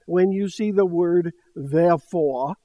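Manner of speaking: slow, drawn-out Texas preacher drawl on "When you see the word therefore"; Texan preacher accent. Retold or imitated. Imitating a Texan Methodist preacher's therefore in a slow drawl. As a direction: lean into a thick Texas accent, slow and emphatic. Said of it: "that's how he said it".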